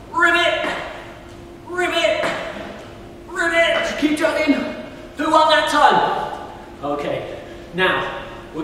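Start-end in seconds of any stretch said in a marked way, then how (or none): 0.1-4.0 high playful ribbit; frog croak. Pretend. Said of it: "frog squats". 4.0-6.5 excited. Real, not acted. Excited race with kids.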